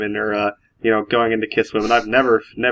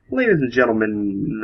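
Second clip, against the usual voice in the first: imitating co-pilot; slower than usual. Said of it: "and he's like".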